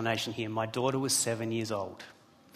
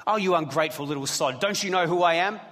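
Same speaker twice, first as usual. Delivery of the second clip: louder, higher, a hammed-up scolding father; mock angry snap; 4 semitones higher, 5 dB louder, faster than usual. Father pretending to scold his daughter, mock angry. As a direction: snap at the ungrateful child in jest. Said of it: "No, I didn't say that".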